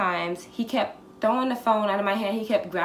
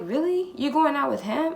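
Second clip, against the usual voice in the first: mock jealous disbelief, pitched up; 5 semitones higher than usual. Jealous man questions her about going out, mock jealous disbelief. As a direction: imitate a jealous man's incredulous question. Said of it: "he would be really jealous".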